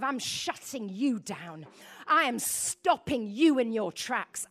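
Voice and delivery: slow, deliberate acted threat; intimidating. Enemy shuts down the preacher, intimidating. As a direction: spell the threat out slowly, pressing harder as you go. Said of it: "of intimidation".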